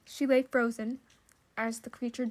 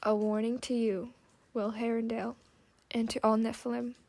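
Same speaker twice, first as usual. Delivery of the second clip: broken machine voice. Acted. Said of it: "The creature's broken voice ground out".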